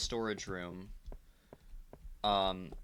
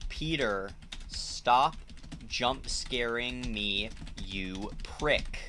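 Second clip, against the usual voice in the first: aggressive snap; slower than usual. Real, not acted. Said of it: "that was aggressive".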